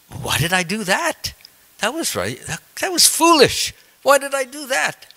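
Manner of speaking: rising pitch, dismayed self-reproach; king regretting his deed as his mind clears; regretful. Retold or imitated. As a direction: ask yourself in dismay why you did it. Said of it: "he felt very regretful".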